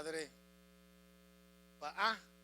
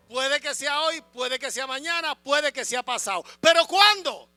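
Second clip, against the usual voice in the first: TV catchphrase; 6 semitones higher, 13 dB louder than usual. Retold or imitated. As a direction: ham up the old TV show line. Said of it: "¿Quién era que decía eso?".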